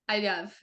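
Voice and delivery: "I love" run into one blurred word; smushed together. Retold or imitated. Toddler trying to say it back, "I love" smushed together. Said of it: "It's, like, really smushed together".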